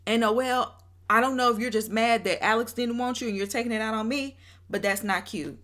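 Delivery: lightly voiced Nick calling Bria out; a hint of Nick, clapping back at the cast. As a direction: pretend to be Nick, firing back at everyone. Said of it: "If I was Nick".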